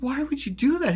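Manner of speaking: high-pitched, baffled protest; indignant reproach. Retold or imitated. Pressing his friend about the prank, indignant. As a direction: ask it high, still appalled.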